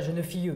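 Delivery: « jeune fille » avec un e final chanté; « jeune fille » à la méridionale, « fille-e »; accent du Sud. Retold or imitated. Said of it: "parce qu'elle prononçait". (« jeune fille » prononcé avec accent du Sud)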